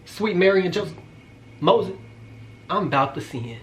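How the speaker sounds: hammed-up plea, trailing off softly; mock prayer. Storyteller calling on the Lord over a man in a towel, mock desperate. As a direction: beg heaven as temptation takes over, playfully. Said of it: "That's how I was".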